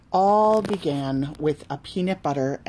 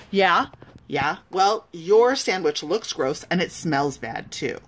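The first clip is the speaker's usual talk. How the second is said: snapped. Acted. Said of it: "Salma snapped back".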